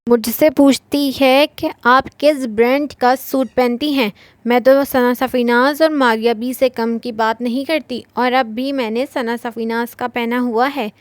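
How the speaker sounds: lightly voiced snooty girl, pulling a face; mocking imitation. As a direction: mimic a show-off bragging about brands. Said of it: "उस लड़की की नकल उतारते मुंह बनाकर बोली".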